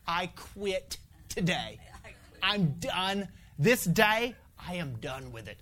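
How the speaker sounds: tired prayer of giving up; weary surrender. Retold or imitated. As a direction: sigh it out like you're beaten. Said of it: "I told the Lord, I said".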